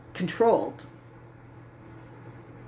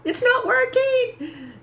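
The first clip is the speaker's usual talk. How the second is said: high, slow, wailing whimper; childlike crying whine; much slower than usual. Retold or imitated. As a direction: reenact the tearful breakdown. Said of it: "And then I cried".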